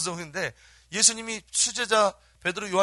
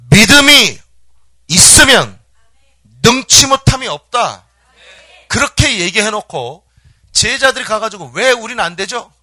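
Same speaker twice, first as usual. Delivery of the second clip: very loud, raised pitch, slow and emphatic; full preaching shout; 5 semitones higher, 17 dB louder than usual. Real, not acted. Preacher hammering faith's power into congregation, forceful shout. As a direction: thunder each phrase out.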